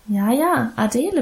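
Adele said lightly and matter-of-fact; easy, confirming repeat. Acted. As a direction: settle it: Adele, as if it were obvious. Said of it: "bestätigte Emma".

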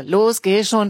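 loud pushy urging. Acted. Big boy pressing Elias, loud urging. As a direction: shove him along with your voice. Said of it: "drängt der große".

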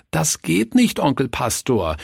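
put-on high childish protest, mildly whined; wailing children. A narrator's reading. Young robbers refusing to beat Uncle Pastor, wailing. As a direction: whine it lightly like reluctant children. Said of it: "jammerten die Räuber".

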